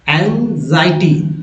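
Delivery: एंजाइटी said slowly as eng-zai-tee; slow, clear एंजाइटी; slow model word. Shown as a demonstration. Teacher showing students how to read एंजाइटी, slowly. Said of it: "कुछ इस तरह से पढ़ेंगे".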